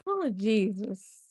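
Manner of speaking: slow whispered groan; slow, whispered exasperation; exasperated whisper. Real, not acted. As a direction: breathe it out, fed up.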